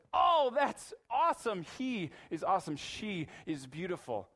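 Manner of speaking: mock God gushing with delight; excited exclamation. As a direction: gush with joy. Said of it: "and says".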